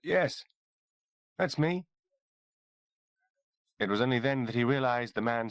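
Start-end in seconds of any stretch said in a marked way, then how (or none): 0.0-1.9 croaked. A narrator's reading. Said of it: "he managed to croak".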